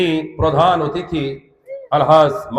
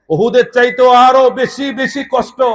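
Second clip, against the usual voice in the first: mildly raised, high retold outcry; retold cry; 6 semitones higher, 5 dB louder than usual. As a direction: quote it as a preacher's lifted cry. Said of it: "নবীজি চিৎকার দিয়ে বলেছিলেন". (চড়া গলায় উদ্ধৃত আর্তনাদ)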